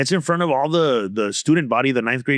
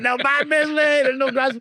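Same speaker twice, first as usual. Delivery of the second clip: much higher mock disbelief; amazed crowd; 13 semitones higher than usual. Students reacting to his joke, high mock disbelief. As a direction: cry out like stunned kids.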